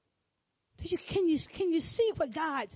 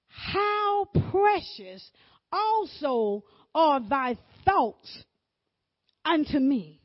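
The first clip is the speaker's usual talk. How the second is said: tearful; 6 dB louder, slower than usual. Acted. Emotional scripture reading.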